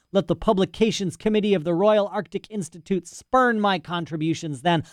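put-on a rambling, self-important old scholar; lightly voiced old professor. Professor's rant continues.

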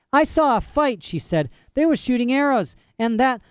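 put-on high, distressed child's voice; upset child. A narrator's reading. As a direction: protest near tears. Girl upset.

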